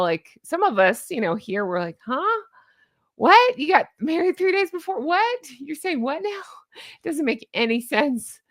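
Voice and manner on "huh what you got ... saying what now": hammed-up astonishment; mock disbelief. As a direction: play the stunned viewer hearing nonsense. Acted incredulous reaction to wedding claim.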